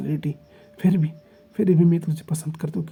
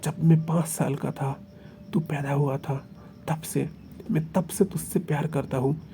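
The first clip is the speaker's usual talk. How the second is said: heated passionate protest. Acted. Heated lover's protest of devotion.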